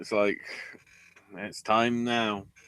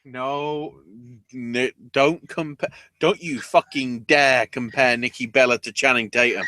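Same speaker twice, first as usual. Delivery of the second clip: mock outrage; 4 dB louder than usual.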